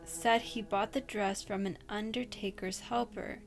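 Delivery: steady storyteller voice, reading a scary tale; spooky story reading. Acted. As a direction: read it like a campfire ghost story.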